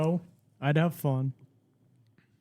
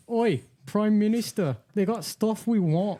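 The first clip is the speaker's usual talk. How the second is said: high-pitched British colonist reporting in; eager mock-British messenger to the Prime Minister; mock British underling; 8 semitones higher than usual. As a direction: pitch it way up, calling to the boss. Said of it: "'cause they were like".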